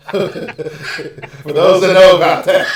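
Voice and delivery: talking through a laugh. Real, not acted. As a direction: laugh while getting the words out. Laughing at an inside joke.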